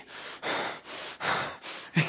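hard puffs of breath; exaggerated heated huffing. Shown as a demonstration. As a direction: huff and puff in anger, no words. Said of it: "breathe heatedly".

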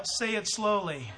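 slow and deliberate, with a laugh; unhurried coaching line; slow instruction. Retold or imitated. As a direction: tell him to slow down. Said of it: "And I'm telling him now".

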